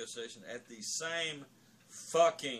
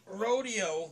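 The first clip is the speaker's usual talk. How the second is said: higher, louder, lit up; excited; 10 semitones higher, 9 dB louder than usual. Real, not acted. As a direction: perk right up on the title. Enthusing about a favourite song.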